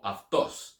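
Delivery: "autos" said as af-TOS, with an f sound; alternative Greek pronunciation. Shown as a demonstration. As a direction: say "autos" as af-TOS, stressed at the end. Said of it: "using the Erasmian or autos".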